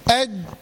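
أج- cut dead on the ج, no sound or breath running on; أج- with sound and breath blocked at the ج; stopped jeem. Shown as a demonstration. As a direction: shut the ج in أج- and hold it closed. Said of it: "لما أجي أنطق كده حرف الجيم".

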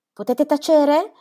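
secco e furioso, molto più alto e più forte, lento; interruzione furiosa. A narrator's reading. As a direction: tronca il discorso con rabbia. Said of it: "la interruppe mister Gibson". (padre che zittisce la pettegola, furioso)

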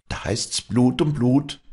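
high, slow, forceful threat; grim, grinding vow. A narrator's reading. Walli vows revenge on Vinzenz, slow and grim. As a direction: grind out each word slowly, pitched high. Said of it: "knirschte sie".

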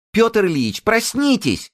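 very high, loud squeal; shrill scream. A narrator's reading. Zinulya waking the patient, loud high squeal. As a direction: shriek to wake him up. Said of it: "завизжала Зинуля и так громко".

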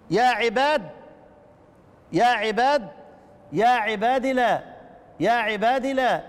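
يا عباد recited slowly with no final ya; dropping the ya. Shown as a demonstration. Teacher reciting Hafs's reading to students, slow. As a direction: recite it clipped after the dal. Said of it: "بحذف الياء".

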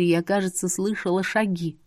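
usual speaking voice

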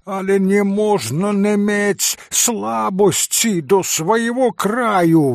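high, loud indignant proclamation; a touch of an incensed Polish gentleman; proclaiming. Acted. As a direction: declare it like a roused patriot. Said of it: "возгласил он".

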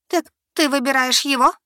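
hurt as she realizes the choice; ошеломлённо; stunned accusation. Acted.

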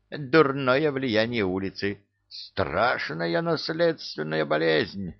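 high whining beggar; whiny high pleading voice. Acted. Thief character whining plea.

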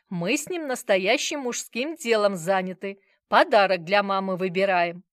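loud, lecturing tone; instructive. A narrator's reading. Grandfather lecturing about manly business, instructive. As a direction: teach them a lesson, grandly. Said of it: "наставительно произнёс Сомов".

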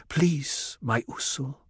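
gentle plea. A narrator's reading. Chaney pressing Paul back down, gently pleading. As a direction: plead softly and tenderly. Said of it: "pressed him back gently".

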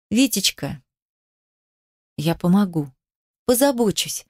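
syrupy, lingering mock tenderness; honeyed, insincere reassurance; unctuous voice. A narrator's reading. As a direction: coo it with false sweetness, pausing between phrases. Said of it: "говорю елейным голосом".

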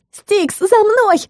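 high, slow call across the field. A narrator's reading. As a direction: shout for the cat to follow. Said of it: "громко выкрикнула". (громкий зов)

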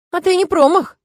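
amused chuckle at her cheek; chuckling. A narrator's reading. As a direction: tease her through a laugh. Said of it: "хохотнул Тирк".

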